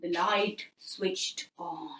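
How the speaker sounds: slow hushed whisper; spooky whisper. A narrator's reading. Narrator to children at spooky moment, whispering. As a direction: whisper it to build suspense.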